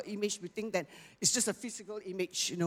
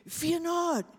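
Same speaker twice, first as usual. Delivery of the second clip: emphatic quote; 10 semitones higher, 3 dB louder than usual. Acted. Quoting God's word to congregation.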